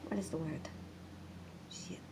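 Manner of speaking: hushed, searching for a word; whispered self-question. Real, not acted. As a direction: whisper it to yourself.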